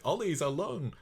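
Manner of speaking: a mock Scottish cry of alarm; a slip into a high Scottish accent. Mother panicking about her son, a mock Scottish cry. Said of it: "she's gone a bit Scottish there".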